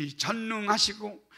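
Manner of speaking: slow, measured, solemn praying; drawn-out ceremonious thanks; slow formal prayer. Shown as a demonstration. Pastor mimics his calm prayer when nothing is urgent, slow. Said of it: "안 급할 때는요, 이런 기도해요".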